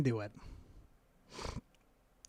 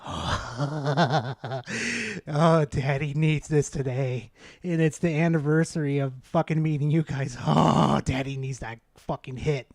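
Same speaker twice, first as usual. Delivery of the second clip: lower, dreamy craving voice; mock needy addict; 4 semitones lower than usual. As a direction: play the desperate addict, lightly. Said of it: "I just kinda sat there like".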